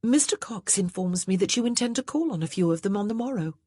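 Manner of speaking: a touch of smooth cunning; smooth wife. Acted. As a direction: slide the news in sweetly. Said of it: "she said smoothly".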